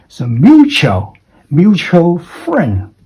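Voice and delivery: slow teacher model of "mutual friend"; MU-tual stressed. Shown as a demonstration. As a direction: say "mutual" like a seesaw, up then down. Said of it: "Going up in the first syllable, going down for the second syllable".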